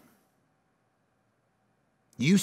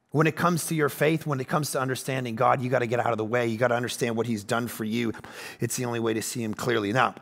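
much lower, softer, sincere; soft intimate preaching; 10 semitones lower, 7 dB quieter, faster than usual. Acted. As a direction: lean in and speak it softly.

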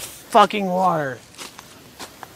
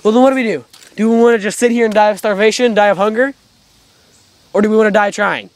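agitated; 4 semitones higher, 5 dB louder, faster than usual. Acted. Arguing what to do next.

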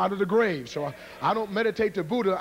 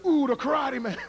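higher-pitched mimic of a small spectator; awed little guy; 7 semitones higher than usual. Little guy watching the karate man, awed imitation. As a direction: marvel in a put-on small voice. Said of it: "Little guy sitting out there".

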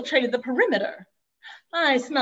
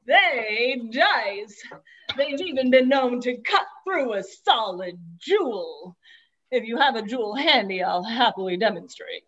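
salesman pitch. Acted. Disguised thief pitching knives at the door. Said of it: "This disguise was foolproof".

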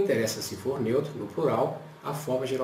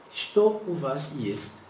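model word; slower than usual. Shown as a demonstration. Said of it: "Mais um exemplo".

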